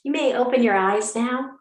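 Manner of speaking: gentle guided-meditation delivery with long pauses; unhurried yoga teacher settling the class. Acted. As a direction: lead them into stillness, phrase by phrase. Leads opening meditation.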